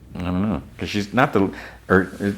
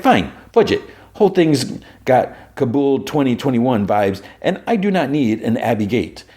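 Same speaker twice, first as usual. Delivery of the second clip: Mister Charles; 6 semitones higher than usual. Retold or imitated. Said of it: "I had a, a voice for Mister Charles".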